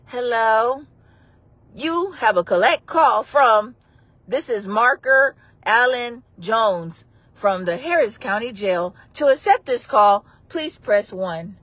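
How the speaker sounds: slow automated operator voice; payphone call. Pretend. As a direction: read it like a recorded jail line. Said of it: "when I do the phone calls".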